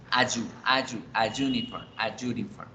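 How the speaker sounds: "A, yu" built up into "a, uniform"; article linking drill. Shown as a demonstration. Teacher builds it for learners, "a yu" growing into "a uniform". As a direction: join "a" to the hard Y of "uniform". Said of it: "debemos decir es a".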